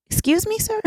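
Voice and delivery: shocked, affronted little squeak of a question; taken aback. Retold or imitated. Acting shocked at a proposition.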